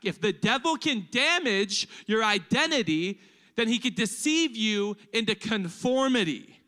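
projected emphatic repeat. Shown as a demonstration. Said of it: "I'm gonna say it again for the people in the back".

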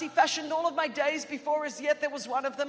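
high, loud preaching proclamation; impassioned declaration. Retold or imitated. Daughter quoting scripture to Mum in the kitchen, preached loudly. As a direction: proclaim it at full force to the room.

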